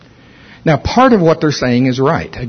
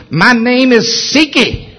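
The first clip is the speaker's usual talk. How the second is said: demon voice; 10 semitones higher, slower than usual. Retold or imitated. Demon speaks through woman.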